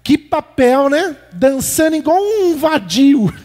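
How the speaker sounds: slow contemptuous dig; sarcastic jealous jab. Retold or imitated. Wife mocking husband's dancing, slow sarcastic sneer. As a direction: belittle him with a sneer. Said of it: "ela falou assim".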